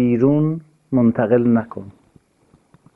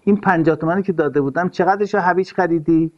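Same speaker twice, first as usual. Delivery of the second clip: stingy husband; 4 semitones higher than usual. Retold or imitated. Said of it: "اینقدر گدا باش که به خانمت بگی".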